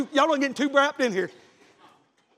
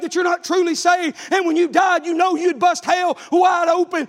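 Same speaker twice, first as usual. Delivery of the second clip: preaching. Acted. Preaching hellfire to young man.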